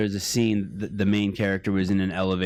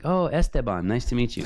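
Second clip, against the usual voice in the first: put-on a light Mexican accent on Esteban, higher pitch; 4 semitones higher than usual. Mexicans he meets greeting him, with a hint of Mexican accent. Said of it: "They'll be like".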